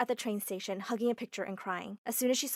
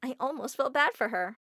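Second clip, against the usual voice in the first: usual speaking voice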